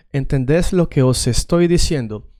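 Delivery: "os estoy" with the S clearly sounded; proper S. Shown as a demonstration. Teacher contrasting accents, proper sounded S. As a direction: link "os" to "estoy" on a clean S. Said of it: "the S this way".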